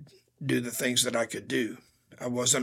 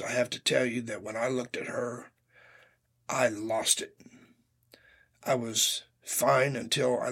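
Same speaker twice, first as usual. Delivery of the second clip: emotional. Real, not acted. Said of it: "Pardon me if I get a little emotional".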